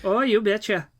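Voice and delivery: hammed-up Minnesota-Canadian "you betcha" accent; mock northern accent. Teasing co-host about the South, mock northern accent. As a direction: tease with a folksy northern accent. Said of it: "goofy ass accents".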